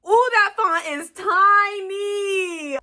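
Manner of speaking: high, slow, loud wail of dismay; dismayed surprise. Real, not acted. Flipping open her new book to tiny print, wailing in dismay.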